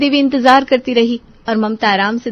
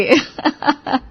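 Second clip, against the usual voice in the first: sly giggle; 6 semitones higher than usual. Acted. Bahus gleeful about new target.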